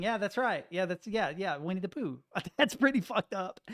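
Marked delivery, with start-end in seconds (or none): 2.6-3.6 says it through a laugh; laughing in disbelief at the joke; laughing, louder. Real, not acted. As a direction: streamer cracks up at his own joke, laughing louder. Laughing at own Pooh joke.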